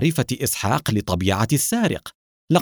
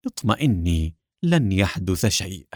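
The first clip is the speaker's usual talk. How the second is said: reassuring; 3 semitones lower than usual. Acted. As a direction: gently put her at ease. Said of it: "ابتسم لها نور وقال".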